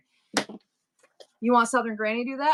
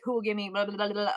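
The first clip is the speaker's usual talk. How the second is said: babbled auctioneer patter; attempted auctioneer filler. Shown as a demonstration. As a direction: fake the filler between bids, tongue rolling. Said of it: "can't do it with the, like".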